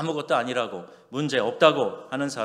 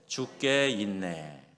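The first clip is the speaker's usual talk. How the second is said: slow, leisurely 죽게 있네 with space between 죽게 and 있네; slow and relaxed; 3 semitones lower, much slower than usual. Shown as a demonstration. 죽게 있네 said slowly so it sounds like 죽게 있네 not 죽겠네. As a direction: stretch 죽게 있네 out calmly. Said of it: "조금 여유 있게 하면".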